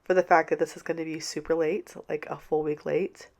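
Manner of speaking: congested, sick voice; stuffed up voice. Real, not acted. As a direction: talk through a blocked nose. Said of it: "I sound like a stuffed up mule right now".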